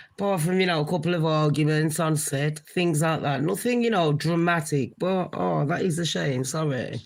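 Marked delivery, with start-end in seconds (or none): 5.0-7.0 tearful. Real, not acted. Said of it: "Literally, I'm crying like an idiot".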